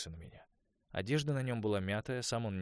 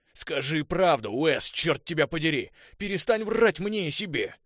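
much higher, much louder furious yell; furious shout; 9 semitones higher, 12 dB louder than usual. A narrator's reading. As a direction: explode at him. Конор вскочил, готов ударить. (Конор в ярости кричит на Уэса)

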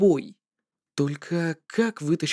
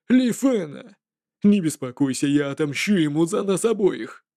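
sinister jester voice. Acted. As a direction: sneer like a cruel trickster. Jester dismisses and threatens.

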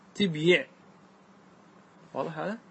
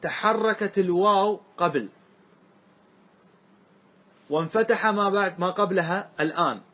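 slow rule recitation. Shown as a demonstration. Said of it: "فنقول".

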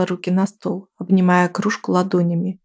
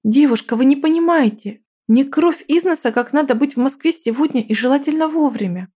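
urgent pleading; 6 semitones higher than usual. Acted. Pleading with check-in clerk.

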